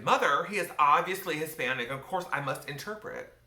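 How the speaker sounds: put-on interrupting teenager. Teenager interrupting mother to offer interpreting, self-important. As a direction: cut in, high and insistent. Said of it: "I interrupted".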